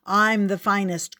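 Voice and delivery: a rivalrous tiger growling his claim; growling boast. Acted. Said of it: "growled the tiger in the red coat".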